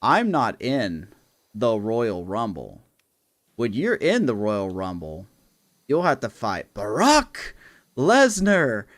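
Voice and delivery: slow, deliberate manager voice, rising at the end; Paul Heyman. Retold or imitated. Paul Heyman correcting R-Truth in the ring, slow and deliberate. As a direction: spell it out slowly, like explaining to a fool. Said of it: "he goes".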